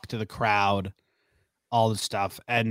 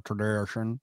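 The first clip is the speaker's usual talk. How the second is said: put-on marble-mouthed Kentucky accent; 5 dB quieter than usual. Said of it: "Just marble mouth".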